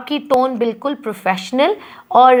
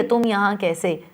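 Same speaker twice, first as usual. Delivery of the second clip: soft slow tone; 2 semitones lower, 7 dB quieter, slower than usual. Shown as a demonstration. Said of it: "खुश भी है, उदास भी है".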